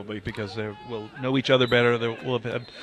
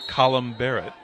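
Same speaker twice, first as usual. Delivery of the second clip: "Colin Barrett" said a little more deliberately; name repeated slowly. Shown as a demonstration. Commentator repeats the name for a very English colleague, slowly. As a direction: say "Colin Barrett" carefully, word by word. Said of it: "can you just repeat the name slowly".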